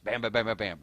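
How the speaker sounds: quick-fire patter, one bam on the next; rapid-fire talking. Shown as a demonstration. Streamer showing viewers how quick he gets, rapid-fire. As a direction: rattle off the bams in a quick burst. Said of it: "I speak really, really quick".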